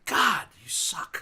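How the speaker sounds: high, slowly drawn-out put-down; exasperated disgust. Real, not acted. Host giving up on a friend's bad aim, exasperated. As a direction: drag it out at a hopeless friend.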